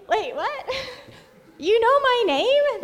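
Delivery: high, loud disbelieving question; amazed, laughing double take; retold astonishment. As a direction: react stunned, with a laugh. Retold astonishment at being known.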